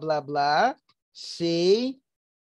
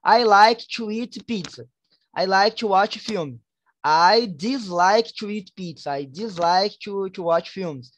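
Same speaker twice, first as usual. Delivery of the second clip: slow example sentences; slower than usual. Shown as a demonstration. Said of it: "Tipo assim".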